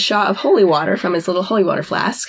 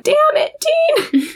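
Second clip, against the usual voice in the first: much higher, hammed-up exclamation; exasperated cry. Bobby despairing at Dean's deal, mock exasperated. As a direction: throw up your hands at Dean.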